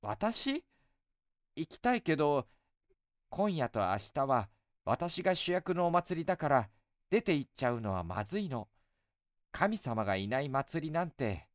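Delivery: put-on light, coaxing young woman; goddess voice. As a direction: sweetly tease an old friend. Goddess speaks.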